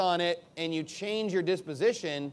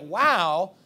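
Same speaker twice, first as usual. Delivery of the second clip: rising awed praise, slow at first; mock grateful delight; joyful wonder; 3 semitones higher, 4 dB louder than usual. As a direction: exclaim like honored by suffering. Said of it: "be happy, like".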